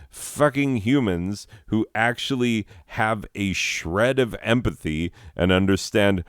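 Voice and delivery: emphatic mock-scholarly complaint; indignant reading aloud. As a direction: read the written rant with rising exasperation. Reads rant entry aloud.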